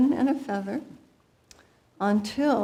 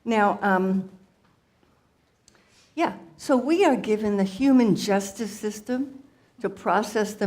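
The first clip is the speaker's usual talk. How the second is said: lightly voiced chatty mother guru; Guru Maya Yo Mama. Comedian's alter ego addresses the audience as a playful mother guru. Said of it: "she will take it from here".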